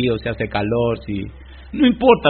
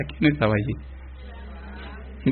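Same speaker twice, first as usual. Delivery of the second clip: slow hushed whisper; suspense whisper; 5 dB quieter, much slower than usual. Real, not acted. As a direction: breathe the question to build suspense. Suspense question before the angel.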